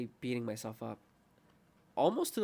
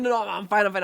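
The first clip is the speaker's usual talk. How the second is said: laughing brush-off; 8 semitones higher, 11 dB louder than usual. Retold or imitated.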